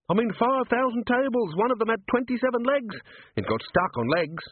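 gossiping worker, climbing high in pitch; grumbling workmen. Acted. Slaughterhouse workers gossiping behind the golem, grumbling.

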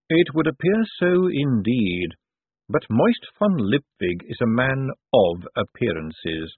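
unhurried, dry and knowing. Acted. Vetinari muses slowly.

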